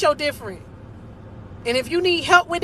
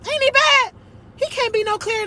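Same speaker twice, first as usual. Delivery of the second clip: excited praise; 10 semitones higher than usual. Real, not acted. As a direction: shout it in joyful awe. Exclaiming praise of God.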